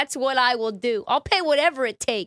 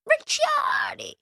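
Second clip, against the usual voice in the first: shouted name; slower than usual. Pretend. Calling out the name.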